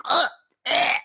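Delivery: short "ugh, eh" of cringe; mock disgusted grunts. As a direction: grunt as if repelled. Acting out disgust at cringe posts.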